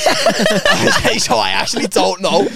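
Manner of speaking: high-pitched laugh breaking through the words. Real, not acted. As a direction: confess it while cracking up. Laughing while admitting the blunder.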